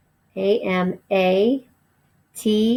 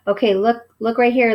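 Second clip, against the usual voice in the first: calling attention; 3 semitones higher, 3 dB louder than usual. Shown as a demonstration. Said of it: "You might say".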